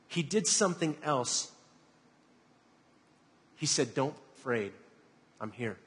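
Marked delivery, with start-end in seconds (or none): 4.0-5.8 softly voiced comfort, falling away; lightly acted, quiet and soothing; calm reassurance. Jesus to the disciples in the storm, calm reassurance.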